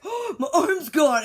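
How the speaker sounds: can't hold back the laugh. Real, not acted. Man with severed arm, unbothered.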